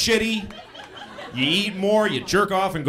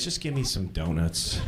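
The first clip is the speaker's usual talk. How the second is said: mock desperate order; 13 semitones lower, 7 dB quieter than usual. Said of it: "I go to the donut place".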